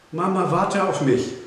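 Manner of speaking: put-on high, loud little-girl call; child calling after mum. A narrator's reading. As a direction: call ahead for mum to wait. Child left behind calls to mother.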